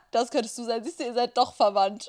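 ordinary delivery

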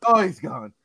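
mock relief through a laugh; lightly voiced relieved China, laughing. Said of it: "You can hear China go".

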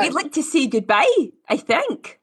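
put-on Glaswegian accent. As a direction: try a Scottish Glasgow accent. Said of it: "doing Glaswegian".

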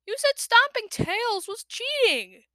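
high, slow whining complaint; indignant protest. A narrator's reading. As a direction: protest like a wronged kid. Young dragon protests unfairness.

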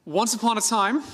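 storybook opening. Acted. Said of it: "Here's the story".

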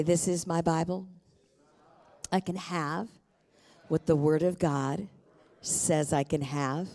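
measured phrases with pauses for repetition; call-and-response declaration. Acted. Pastor has congregation repeat a Bible creed, measured declaration. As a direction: lead the room phrase by phrase, lifting phrase endings.

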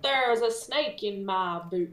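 lightly voiced toy cowboy; a hint of cartoon cowboy twang; Woody. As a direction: quote it like the cowboy doll. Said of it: "I was Woody from Toy Story".

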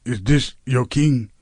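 light attempt at an African accent. Host retries the king's line on request, lightly attempted African accent. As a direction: have a tentative go at an African accent. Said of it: "in an African accent".

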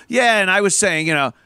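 a light hint of a smug know-it-all; lightly voiced smug jerk, barely changed; asshole voice. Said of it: "the universal voice of the asshole".

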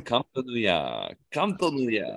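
seductive whisper. Retold or imitated. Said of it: "all I hear is".

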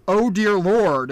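loud, slow, drawn-out cry to heaven; country mama taken aback; alarmed mother. Acted. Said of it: "she says".

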